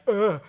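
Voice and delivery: creeped-out "ugh" breaking into a laugh; short disgusted groan, half laughing; shudder of disgust. Retold or imitated. Reacting to her uncanny face, a creeped-out ugh. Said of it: "without being like".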